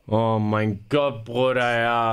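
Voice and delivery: deflated groan. Real, not acted. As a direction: sink into the words, defeated. Streamer deflated after explanation. (tief und resigniert)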